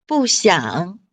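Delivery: 不想 with 不 falling, 想 dipping; bù xiǎng demo. Shown as a demonstration. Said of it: "想三声".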